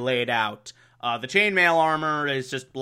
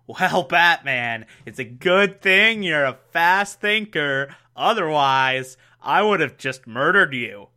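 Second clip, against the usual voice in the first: calm henchman. Retold or imitated. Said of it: "the dude's like".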